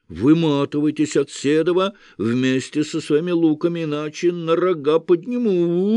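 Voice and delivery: high, bleating goat-devil voice. A narrator's reading. Devil shielding the condemned, bleating high.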